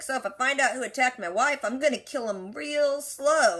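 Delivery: casual retold threat, slowing right down at the end; lightly menacing, stretching the last words; mock threat. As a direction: draw out the final words as a mild threat. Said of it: "they vaguely threaten each other".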